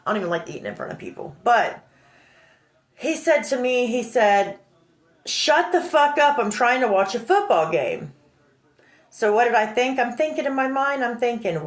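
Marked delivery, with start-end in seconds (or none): 5.3-8.1 retold angry snap. Friend shutting her up over a football game, retold angrily. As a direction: imitate a friend telling you off. Retelling friend's rude outburst.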